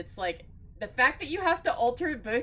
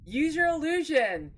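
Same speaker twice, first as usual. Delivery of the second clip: loud, thrilled cheering; excited; 6 semitones higher, 5 dB louder, slower than usual. Real, not acted. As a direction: shout the thanks, overjoyed. Gift subs donated.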